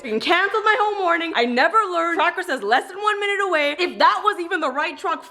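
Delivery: high-pitched, exasperated rant; beyond pissed. Real, not acted. Customer recounting the missed delivery, high exasperated anger. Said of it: "I'm beyond pissed".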